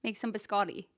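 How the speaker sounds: soft casual "biscotti", bis-KAH-dee; everyday American "biscotti"; American pronunciation. Acted. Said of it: "How would you say it".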